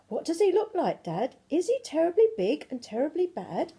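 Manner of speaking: an eager little one pestering her dad; high eager child voice; child's voice. Acted. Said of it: "said the Gruffalo (child asks Dad)".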